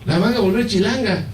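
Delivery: high, mock-desperate complaint; comic outraged wail; retold tearful protest to God. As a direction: act out pleading with God, pitch climbing. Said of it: "llorando, y diciendo al Señor, pataleando".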